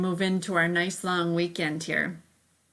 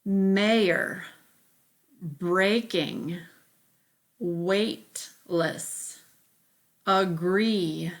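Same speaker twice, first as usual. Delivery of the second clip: careful word-by-word reading with pauses; spelling-list delivery, one isolated word at a time; much slower than usual. Shown as a demonstration. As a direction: read out each word separately for learners. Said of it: "while I read them to you".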